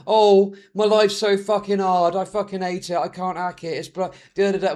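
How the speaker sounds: imitating a streamer banging on about a hard life; put-on self-pitying moan; mock complaining. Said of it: "was banging on for ages".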